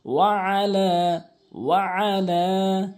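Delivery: ওয়া আলা stretched three counts, pressed ain; long stretch. Shown as a demonstration. Teacher showing madd for learners. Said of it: "তিন আলিফ টানবেন".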